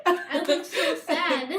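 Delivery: slow, laughing through the words. Real, not acted. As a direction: giggle while you say it. Laughing while telling sad story.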